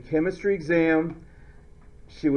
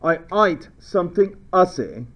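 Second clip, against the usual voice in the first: joking Australian, ATE turned to "ite"; playful Australian vowels; Australian accent. Acted. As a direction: say it in a mock Aussie accent. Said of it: "'Cause they talk funny".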